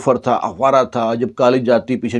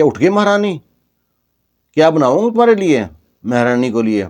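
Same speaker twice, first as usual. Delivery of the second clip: higher, mocking sister-in-law sneer; sarcastic taunt; 3 semitones higher than usual. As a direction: needle her with fake sweetness. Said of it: "وہ جلی کٹی سناتی رہی". (طنزیہ، جلی کٹی لہجہ)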